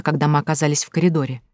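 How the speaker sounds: plain reading voice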